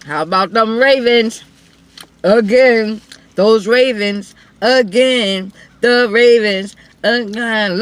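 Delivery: loud repeated Ravens cheer; rally the fans for the team. Real, not acted. Fan cheers the Ravens at viewers, loud and rhythmic.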